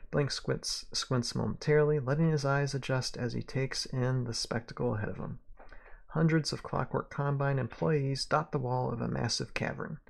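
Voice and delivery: measured western-tale narrator; story narration. A narrator's reading. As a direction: read it aloud like a western novel. Narration of the scene.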